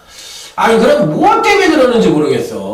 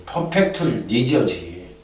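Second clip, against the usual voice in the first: normal talking voice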